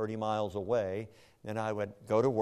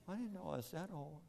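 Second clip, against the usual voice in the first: lightly imitated gravelly voice, softer; imitating her gravelly voice; 8 semitones higher, 10 dB quieter, faster than usual. Husband imitating wife's gravelly surprised reply. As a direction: mimic her rough voice gently. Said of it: "talking with that gravelly voice".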